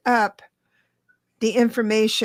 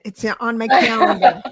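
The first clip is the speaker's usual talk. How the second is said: laughing; 5 dB louder than usual. Real, not acted. Laughing first take.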